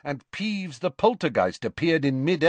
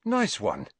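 appreciative; 9 semitones higher than usual. Acted. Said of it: "said Ron appreciatively".

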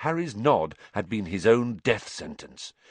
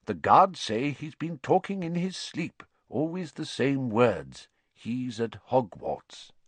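remembered quote; 4 semitones higher than usual. Retold or imitated.

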